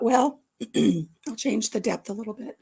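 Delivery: clearing throat mid-sentence; choking on food. Real, not acted. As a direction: talk past a blueberry stuck in throat. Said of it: "I'm choking on a blueberry".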